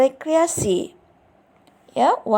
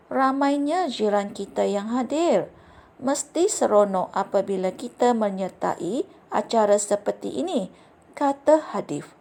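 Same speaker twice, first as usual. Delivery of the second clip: expressive reading aloud. Shown as a demonstration. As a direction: read the story to the class with clear pronunciation and fitting intonation. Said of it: "kamu perlu mendengar cikgu membaca petikan ini". (bacaan contoh yang ekspresif dengan intonasi sesuai)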